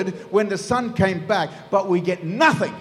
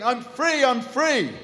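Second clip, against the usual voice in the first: higher, lightly hammed-up yell of freedom; mock yelling; 5 semitones higher, slower than usual. Runaway son running down the street, mock yelling. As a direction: call out giddily, half-yelled. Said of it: "runs down the street yelling".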